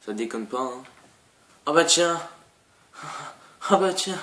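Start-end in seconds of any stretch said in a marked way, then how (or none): 1.7-2.2 surprised. Real, not acted. Sees huge monster. 3.7-4.2 surprised again, pitched higher. Real, not acted. Repeats after laugh.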